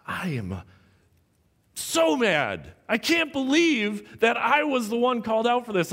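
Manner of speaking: mildly acted indignant outburst; mad. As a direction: retell being wronged with rising exasperation. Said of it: "I remember going home feeling".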